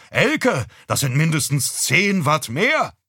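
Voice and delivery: loud, high call to the kitchen. Acted. Father calls his wife in the kitchen, loud and high. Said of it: "Dann rief er nach Mutter".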